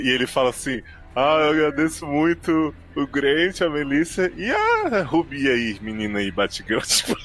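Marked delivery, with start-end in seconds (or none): 1.1-6.8 lightly imitating someone wrecked giving thanks; mock wasted thanks. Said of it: "ele tá podre".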